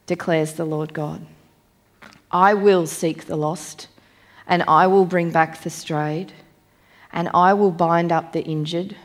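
measured, solemn Bible reading with weight on I; scripture reading. Acted. Preacher reads Ezekiel to the congregation, solemn and measured.

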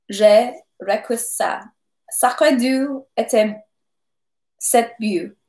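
lively French officer speaking French; French captain. Acted. Captain bragging about wounds to Pierre, in lively French. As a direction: boast in French like a cheerful captain.

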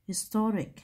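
"historic" with the middle syllable "to" stressed. Shown as a demonstration. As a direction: lean on "to" in "historic". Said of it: "đó là nhấn chữ to". (nhấn âm hai "to" trong "historic")

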